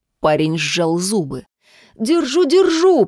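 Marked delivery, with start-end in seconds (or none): 2.0-3.1 strained, hoarse cry pitched higher; hoarse gasp. A narrator's reading. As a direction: croak it out while straining to hold on. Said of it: "прохрипел Фил".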